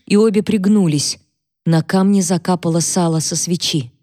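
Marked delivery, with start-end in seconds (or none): none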